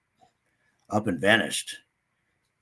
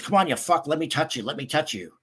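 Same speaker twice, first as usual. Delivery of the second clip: creepy host taunt; 5 semitones higher than usual. Retold or imitated. Creepy guy urging, retold.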